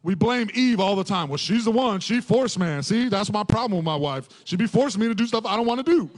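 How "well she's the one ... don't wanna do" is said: playfully whining about the wife; mock complaint. Preacher jokingly blames his wife, mock complaint. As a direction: grumble in jest, rising toward the end.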